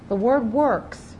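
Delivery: slow, deliberate "The word works" with works leaned on; preacher underlining works; stress on works. Shown as a demonstration. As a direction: spell out works like a key term. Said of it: "I want to stress the word works".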